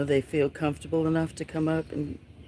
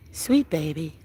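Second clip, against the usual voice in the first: cooing; 5 dB louder than usual. Real, not acted. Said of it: "cooing to kitten".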